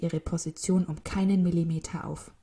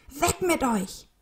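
high, slow, drawn-out shout; storybook shout to scare off birds; mock yell; 8 semitones higher, slower than usual. A narrator's reading. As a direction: shoo them off without full volume. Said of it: "schrie ein Bauarbeiter".

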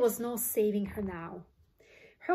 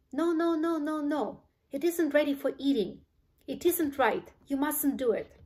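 agitated, higher and louder plea; rapid-fire worried objection; urgent protest; 5 semitones higher, 5 dB louder than usual. A narrator's reading. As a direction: plead in alarm for them to stop. Wonka wrings hands, protesting urgently.

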